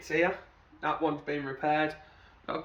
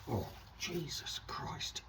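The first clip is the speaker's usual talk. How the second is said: startled whisper; 12 dB quieter, slower than usual. Real, not acted. Oil suddenly pours out.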